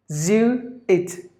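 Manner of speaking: "Jesuit" slowly as je, zoo, it; syllable by syllable. Shown as a demonstration. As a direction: separate beats for each part of "Jesuit". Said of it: "there are three syllables in this word".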